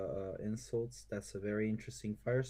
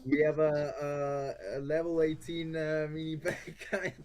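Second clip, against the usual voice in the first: excited panic; 5 semitones higher, 9 dB louder than usual. Real, not acted. Panicking during match.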